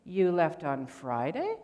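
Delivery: "You left on Friday?" slow, with a rising tune at the end; mock an attorney's rising question; sing-song question. Teacher imitates an annoying attorney, sing-song rising tune. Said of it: "It's that sing-songy stuff".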